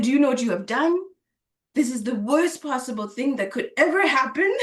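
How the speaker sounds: mock-angry scolding with a laugh creeping in; a half-laughing imitation of a furious teacher; funny mock anger. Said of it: "I'm saying it in a funny way".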